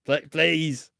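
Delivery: high, stretched-out begging; mock pleading. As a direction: whine out a last desperate please. Acted begging continues.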